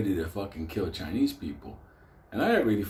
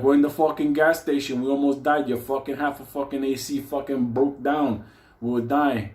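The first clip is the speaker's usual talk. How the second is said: retold angry complaint; 4 semitones higher, 4 dB louder than usual. Complaining on phone.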